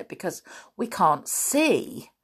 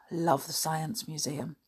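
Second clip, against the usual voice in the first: soft and fond; 3 semitones lower, 10 dB quieter than usual. Real, not acted.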